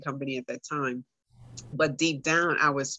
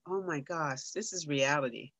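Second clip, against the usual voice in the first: soft, private inner voice; hushed retold thought; thinking to herself; 6 dB quieter than usual. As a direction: murmur it inwardly as a dawning realization. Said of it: "thinking to myself".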